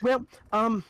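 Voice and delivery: a hint of a chatty official; lightly voiced quest giver. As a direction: talkative noblewoman, lightly voiced.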